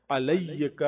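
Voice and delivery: علیک with a flat, weak ع; the mistaken light-ain علیک; wrong take. Shown as a demonstration. Teacher demonstrates a wrong ain in علیک. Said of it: "وہ بھی غلط ہے".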